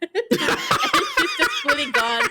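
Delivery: high, slow, laughing squeak; laughing squeal. Real, not acted.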